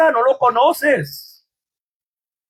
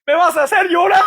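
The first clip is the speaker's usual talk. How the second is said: moved protest; 5 semitones higher than usual. Retold or imitated. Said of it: "me dije".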